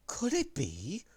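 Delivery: high teasing. Acted. Teasing mystery voice.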